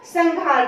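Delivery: संहार said as "sang-haar"; "ng" nasal sound. Shown as a demonstration. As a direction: put an "ng" before the h in संहार. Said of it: "अंग की आ रही है". (संहार को "संङ्हार", अंग की ध्वनि से)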